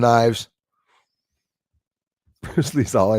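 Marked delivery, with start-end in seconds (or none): 1.6-3.2 laughing. Real, not acted. Repeats mocked name laughing.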